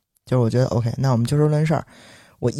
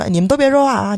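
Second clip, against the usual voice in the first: much higher imitation of the guard cutting people off; retold shushing order; 9 semitones higher, 4 dB louder than usual. Guard stops the neighbours from speaking up, imitated bossy call. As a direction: mimic him silencing the onlookers. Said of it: "就把他们都拦那儿".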